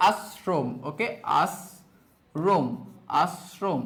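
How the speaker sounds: আশ্রম as "as-srom", softly sounded out; dental s. Shown as a demonstration. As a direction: break আশ্রম slowly into "as... srom". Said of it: "আমার দন্তস্ব হয়ে গেছে".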